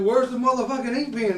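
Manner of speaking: half-laughing shout at the clerk; retold yell. Retelling demanding a pen from the clerk, laughing shout. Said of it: "I said".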